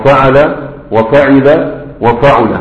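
فعل وفعل وفعل drawn out slowly, fatha then kasra then damma on the middle letter; slow vowel drill. Shown as a demonstration. Teacher drilling students on the three verb patterns, slow and careful. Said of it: "مرة العين مفتوحة، ومرة العين مكسورة".

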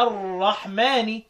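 الرحمن drawn out as ar-rahmaani; slow word with kasra on the final nun of الرحمن; genitive i ending. Shown as a demonstration. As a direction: end الرحمن on a clear i. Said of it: "وقرأ بالخفض في كلمة الرحمن".

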